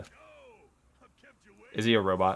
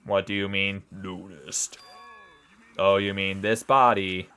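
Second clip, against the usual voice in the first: robot voice; slower than usual. Acted. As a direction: speak like a booming robot. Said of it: "I'm glad I have a new fun voice".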